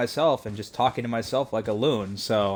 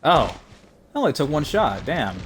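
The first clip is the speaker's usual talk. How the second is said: higher, swooping surprised reaction; real surprise; 4 semitones higher, 3 dB louder than usual. Real, not acted. Gamer reacting to a one-shot kill, surprised. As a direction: react amazed, pitch jumping up and dropping.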